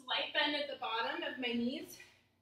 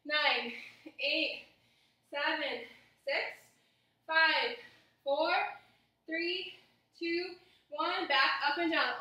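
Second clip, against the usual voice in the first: loud counting; 4 dB louder, slower than usual. Real, not acted. Coach counting reps loudly.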